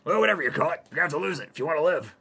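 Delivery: high, loud, cheery doctor. Acted. Doctor breaks bad news to Hayden, high and loud. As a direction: belt it out as a gleeful doctor.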